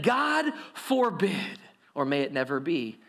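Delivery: slow, drawn-out God forbid; horrified crowd. Acted. People recoiling at the verdict, mock horror. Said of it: "they said".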